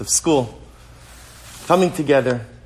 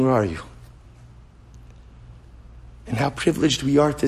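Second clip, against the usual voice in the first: tender, hushed plea. Real, not acted. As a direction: draw them close gently. Soft heartfelt address to students.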